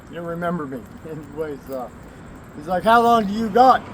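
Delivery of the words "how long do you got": quoted friend, higher and louder; friend's question. Retold or imitated. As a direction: perk up as the friend asking.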